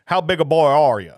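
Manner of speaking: lightly imitated Southern prank caller; hint of a confrontational Southern man; Roy D. Mercer. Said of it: "like, a Southern man".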